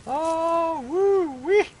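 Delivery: high falsetto whoop of joy; joyful whoop. Acted. New father whooping at his baby son, joyful whoop. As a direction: whoop it out, overjoyed.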